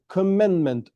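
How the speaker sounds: "commandment" set apart and said firmly; weighty, separate "commandment"; stress on commandment. Real, not acted. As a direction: repeat "commandment" with deliberate emphasis. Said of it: "I stress this word".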